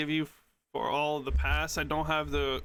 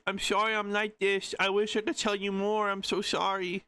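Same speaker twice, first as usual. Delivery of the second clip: lightly acted, higher pleading read; pleading apology voice; 4 semitones higher than usual. Reading an apology message aloud, lightly pleading. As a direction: put a touch of high-pitched pleading into the message.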